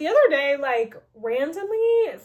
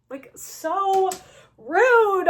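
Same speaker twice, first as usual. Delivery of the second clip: much higher, louder, laughing; laughing outrage; 8 semitones higher, 9 dB louder, much slower than usual. Real, not acted. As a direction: laugh out the indignation.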